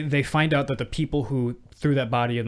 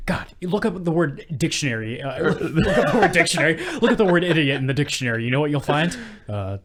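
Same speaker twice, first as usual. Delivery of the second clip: exasperated rant; 4 semitones higher, 4 dB louder than usual. Retold or imitated. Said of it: "Val Kilmer is just at a ten".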